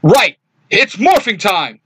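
loud, rousing battle cry; rally the team with a big shout. A narrator's reading. Jason calls his team to morph, loud rousing shout. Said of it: "Jason shouts".

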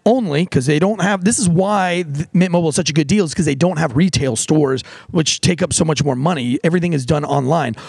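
casual host-read sponsor ad. Acted. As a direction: sell the deal, upbeat.

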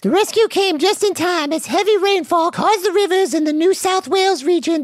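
steady newsreader cadence; news anchor read. Acted. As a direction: deliver the headline straight.

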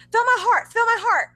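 high, loud breathless plea, mock panic; imitating frantic fangirl. Imitating a fangirl begging her friend, high and frantic. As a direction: playfully ham up a girl's frantic gasp. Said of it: "and she's like".

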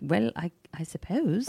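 put-on amateur British accent, halting and understated. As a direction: imitate a reluctant British man. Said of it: "He was a British guy".

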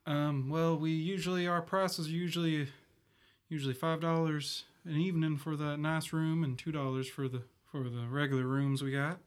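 put-on bashful, halting boyish voice; blushing young boy. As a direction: fumble through it like a flustered lad. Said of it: "really blushing now".

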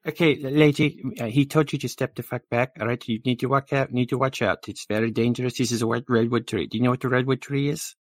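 urgent, rattled safety warning; brusque bystander warning. Acted. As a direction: lightly play a fussy man warning a lady.

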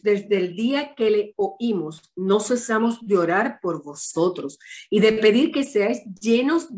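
slow, solemn Bible reading; preacher reading Colossians to the congregation; scripture reading. Acted. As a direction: read each verse slowly and with reverence. Reads Colossians aloud.

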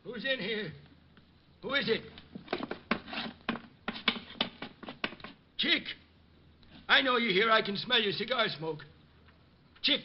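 soft, uneasy calls into a dark room; nervous hushed calling. Acted. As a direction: call out quietly, scared of who answers. Old man alone in dark house.

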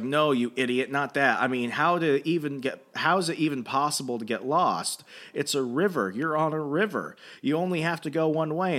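retold indignant telling-off; mock exasperation. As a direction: act out someone fed up with an idiot. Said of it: "really getting mad".

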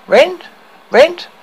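high, outraged shriek; furious howl. A narrator's reading. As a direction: howl it in fury. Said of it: "Lily White howled in fury".

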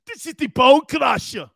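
booming announcement of the ring name; ring announcer shout. Pretend. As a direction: introduce the wrestler like a ring announcer. Announcing his wrestling name.

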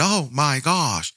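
slow, hammed-up gasp of outrage; mock a theatrical podcaster, drawn out and slow; slow mock-shocked performer voice; fake dramatic shock. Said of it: "I'm not an improv actor".

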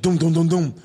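four evenly spaced mock-dramatic dooms; spoken drum-like dooms. Host mimics a sting before the Kobe accusation, spoken dooms. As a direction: sound out a dramatic intro.

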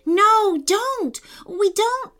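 high, urgent cry of warning; urgent protest. Acted. Amelia stops her brother at the meteor, urgent protest. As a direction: cry it out high to stop them.

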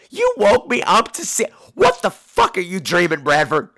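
slow, incredulous retold complaint; acted exasperation, starting high; mock indignation. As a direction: complain in baffled outrage at being woken.

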